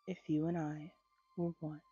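measured, gentle poetry recital; poem reading. A narrator's reading. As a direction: read the verses unhurried, savoring each line. Reads Dorothy Parker poem aloud.

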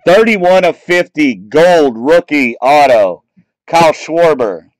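excited announcement. Real, not acted. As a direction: announce the rare card with a thrill. Announcing a rare numbered card.

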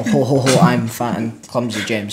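slow, booming ho-ho oaf; mock jolly oaf. Echoing a friend's joke name, mock jolly oaf. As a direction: chortle it out slowly like a big clumsy fool.

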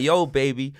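lightly voiced cool-cat greeting; Ramon. Storyteller imitating the resort plug's greeting, lightly voiced cool cat. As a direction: imitate a smooth hustler's easy hello. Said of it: "That's how he talks".

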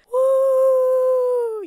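high, loud cheer of triumph; excited whoop. Real, not acted. Celebrating getting into Berghain, loud excited whoop. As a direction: cheer like you just made it in.

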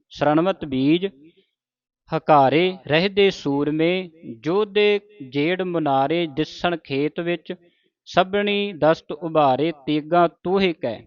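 slow, measured verse reading; scripture recitation. Acted. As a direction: recite word by word, drawing out the line endings. (ਠਹਿਰਾਅ ਨਾਲ ਗੁਰਬਾਣੀ ਪਾਠ)

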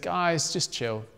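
calm frightened friends without raising the voice. Acted. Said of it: "Jesus could see they were scared".

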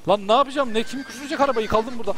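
ordinary talk

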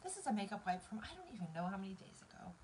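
whispered, teary self-reassurance; crying and laughing at once; laughing through tears. Real, not acted. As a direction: reassure yourself while crying.

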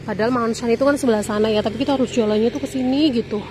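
panting while walking uphill; out of breath. Real, not acted. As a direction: talk out of breath from the long walk. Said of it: "Sampai megap-megap". (terengah-engah)

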